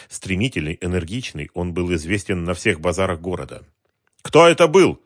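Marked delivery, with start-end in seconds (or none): 4.2-5.0 high, loud angry demand; angry question. A narrator's reading. Wholesaler angrily asks who the extortioners were. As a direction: demand a name furiously. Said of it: "зло спросил он".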